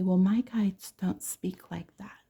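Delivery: slow whispered imitation; mock whispered know-it-all. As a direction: whisper it like a smug skeptic. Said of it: "'cause they'll say".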